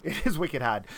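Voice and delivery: put-on echoed Boston accent, dropped r; lightly put-on Boston accent. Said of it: "a real Boston accent".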